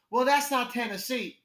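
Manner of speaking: slow, emphatic correction in a lightly voiced local; a hint of a proud local; dive bar owner. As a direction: lightly imitate a bar owner setting a newcomer straight.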